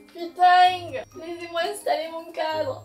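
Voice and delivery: exasperated venting with drawn-out words; frustrated, bursts of groaning complaint; worked-up annoyance. Real, not acted. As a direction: whine and plead to be left alone. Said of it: "quand je m'énerve".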